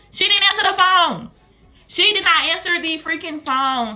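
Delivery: loud and high complaint; exasperated outburst. Real, not acted. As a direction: raise it in exasperation at being ignored. Exasperated at sister not answering.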